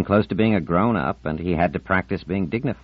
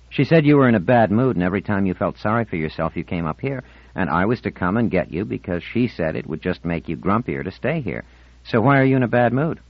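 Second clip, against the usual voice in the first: a hint of a teenage boy reporting an errand; lightly voiced Ornell; 4 semitones higher, 3 dB louder than usual. Boy relays her mother's errand to Marlena, lightly voiced. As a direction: lightly act a boy passing on a message.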